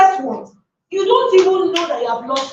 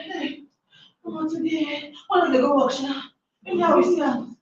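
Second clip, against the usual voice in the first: much softer grumbling aside; muttering to oneself; 5 dB quieter than usual. Retold or imitated. Speaker voicing a drained worker muttering at the office, much softer. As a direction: grumble quietly under your breath.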